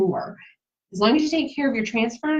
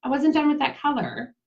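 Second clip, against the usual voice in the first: mock complaint; 6 semitones higher than usual. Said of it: "and then I'm like".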